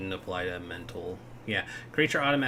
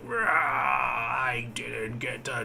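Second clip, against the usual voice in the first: whiny dying monster; 2 semitones higher, slower than usual. Acted. DM voices dying devil.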